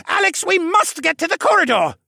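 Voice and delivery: high, loud, insistent plea; urging. A narrator's reading. Jenner pushing Alex toward safety, urgently loud. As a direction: press them hard to move now. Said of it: "Jenner urged me again".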